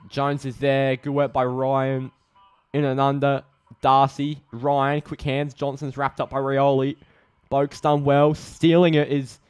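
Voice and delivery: quick-fire names in a lifted voice; engaged footy commentary; live play-by-play. Real, not acted. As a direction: call each touch as it happens.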